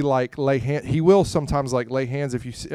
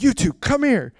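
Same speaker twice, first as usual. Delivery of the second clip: high, loud preacher command; loud high come here; retold summons; 11 semitones higher, 6 dB louder than usual. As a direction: call them up to the stage, commanding. Preacher summons couple to front.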